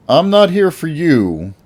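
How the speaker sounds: slow, high, altered vigilante voice; transformed voice. Acted. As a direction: speak through a menacing disguised voice, slowly. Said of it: "I say through my transformed voice".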